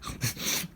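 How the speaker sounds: soft, unvoiced mock sneezes; imitated sneezing. Ape allergic to flowers, mock sneezing. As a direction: puff out little fake sneezes. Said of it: "he's sneezing".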